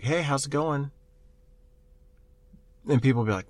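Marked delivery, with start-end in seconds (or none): 0.0-0.9 lightly voiced stranger, a little higher; a hint of a creepy stranger's hello; creepy hacker greeting. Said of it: "And they'll be like".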